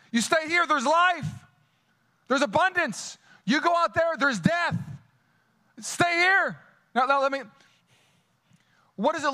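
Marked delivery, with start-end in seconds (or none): 0.1-6.6 voice of Jesus. Acted. Voicing Jesus's call to abide.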